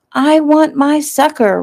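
put-on high, slow whining child voice; crying toddler. Rose whines to her mother about her sucker, high and slow. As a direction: wail it like a three-year-old denied her candy. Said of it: "Rose cried".

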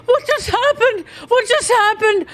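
very high bewildered huh's; reeling in disbelief; high, shocked squeaky questions; stunned confusion. Real, not acted. Confused by sudden game event.

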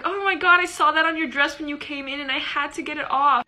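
high, excited friend rushing to explain; friend's urgent voice. Retold or imitated. Friend explaining the spider on the dress, high and eager. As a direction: squeal it out, eager to help. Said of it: "She's like".

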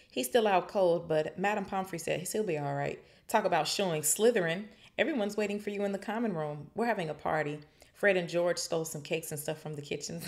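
excited Ron. Acted. Ron's excited report.

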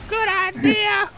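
high, very slow zombie moan. Retold or imitated. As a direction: drag it out like a zombie. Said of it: "That's what it sounds".

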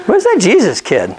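put-on sudden high worried call, where's the kid; a mock-alarmed shout of a lost child's parent. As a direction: parents panicking as they notice the boy is gone. Parents realise Jesus is missing.

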